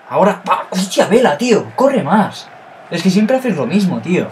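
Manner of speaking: high, loud exasperated shout at the player; frustrated yelling. Real, not acted. Gamer scolding his striker on screen, frustrated shout. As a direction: bark at him to run.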